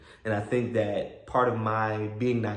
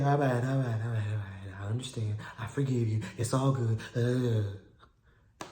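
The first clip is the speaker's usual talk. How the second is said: half-hearted comforting; 4 dB quieter than usual. Retold or imitated. Man forgiving the crying woman, half-hearted comforting. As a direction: placate her without much conviction. Comforting her, doubting the tears.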